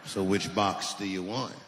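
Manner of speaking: low, drawn-out clerk voice; gun clerk. Acted. Clerk selling buckshot to buyer, low slow drawl. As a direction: take it low and slow, matter-of-fact.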